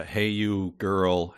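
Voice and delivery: drawn-out slow read of the quote; slowly savoured quote. Retold or imitated. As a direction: savour each word slowly. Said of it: "I also like that".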